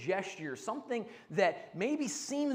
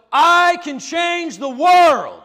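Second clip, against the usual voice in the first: very loud, slow, drawn-out cry with gusto; 8 semitones higher, 20 dB louder than usual. Leading an audience in the phrase again: louder, with more gusto. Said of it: "a little bit more gusto".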